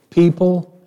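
"People" hit high and loud; emphatic stress. Shown as a demonstration. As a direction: punch the word "People". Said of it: "how emphatic he is about the extent".

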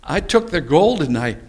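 high, innocent excuse, slowing at the end; Aaron excuses himself to Moses, high and innocent; sheepish Aaron excuse. Retold or imitated. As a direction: play dumb about the calf. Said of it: "He says".

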